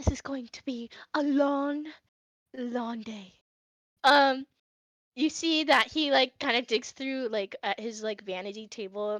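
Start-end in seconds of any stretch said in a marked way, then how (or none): 0.0-3.3 whispered aside. Voicing a character muttering to himself about the day ahead: whispering. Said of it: "You kinda hear Hoshi whisper going".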